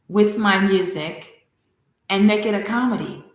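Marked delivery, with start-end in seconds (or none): none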